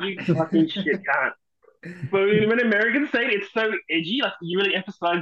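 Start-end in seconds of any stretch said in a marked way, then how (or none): 0.0-1.3 "cunt" said Aussie-style as "kahnt"; slow "fucking shit", then an Aussie "kahnt"; Australian pronunciation. Shown as a demonstration. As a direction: swear casually, with "cunt" as open "kahnt". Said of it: "the way Australians say it".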